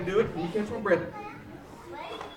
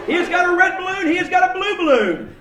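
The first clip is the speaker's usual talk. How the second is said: showman announcing; 4 semitones higher than usual. Acted.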